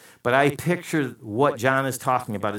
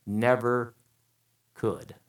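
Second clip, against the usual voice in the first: best man speech; 4 semitones higher, 6 dB louder than usual. Pretend. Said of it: "and he says".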